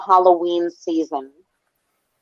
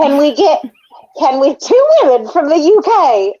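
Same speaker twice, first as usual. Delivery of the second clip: higher, hammed-up British accent; awful British accent; 4 semitones higher than usual. Podcast host attempting the two women from the UK, bad British accent. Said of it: "I have awful, awful accents".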